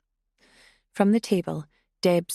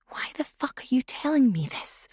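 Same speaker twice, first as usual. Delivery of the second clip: incredulous; 5 semitones higher than usual. A narrator's reading. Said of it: "Leah said incredulously".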